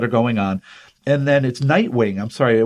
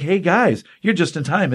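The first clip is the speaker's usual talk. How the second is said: higher, lightly acted perky hello; imitated cheerful greeting; 5 semitones higher than usual. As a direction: greet the gang with mock cheer. Acted cheerful greeting to arriving friends.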